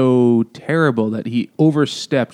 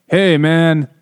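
loud, high, cocky tough-guy threat; 80s action movie villain; 5 semitones higher, 6 dB louder than usual. Retold or imitated. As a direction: play a cheesy action-movie heavy, grinning. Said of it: "Boretsky talks like a villain in a nineteen eighties action movie".

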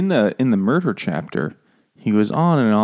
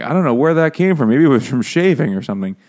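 higher, louder mock innocence; feigned ignorance; 3 semitones higher, 4 dB louder than usual. O J explaining away his cut finger, mock innocent. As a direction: play dumb, pitched up.

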